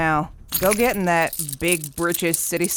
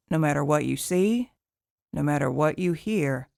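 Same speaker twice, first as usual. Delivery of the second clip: hushed warning; 2 semitones lower, 7 dB quieter than usual. Acted. Hawthorne warning the PI before leaving, hushed and grave. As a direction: lean in and warn him gravely.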